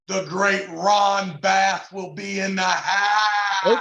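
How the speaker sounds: slow, drawn-out big reveal; showman's announcement. Real, not acted. Promoter revealing Ron Bass to viewers, drawn-out hype. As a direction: stretch it like a ring announcer.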